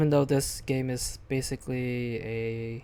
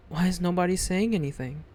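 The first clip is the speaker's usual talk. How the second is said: pleading; 3 semitones higher than usual. Acted. Pleading with silent friends.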